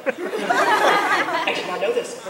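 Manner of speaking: slow, high, laughing awe; fangirling. Retold or imitated. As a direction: gush like a starstruck fan. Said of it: "Suddenly he's fangirling".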